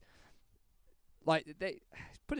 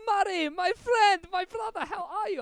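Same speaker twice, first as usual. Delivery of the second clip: Abdullah; 7 dB louder than usual. Retold or imitated. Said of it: "he goes".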